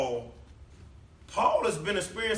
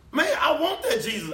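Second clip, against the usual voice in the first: high, loud, laughing shout on "that"; hammed-up greedy delight, much higher and louder; mock excited shout; 10 semitones higher, 4 dB louder than usual. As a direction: shout "I want that Jesus" with a laugh. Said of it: "What were they gonna say?".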